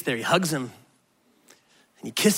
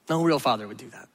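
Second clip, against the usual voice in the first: softer echo; 9 semitones lower, 7 dB quieter than usual. Retold or imitated. Echo of the objection, dropped.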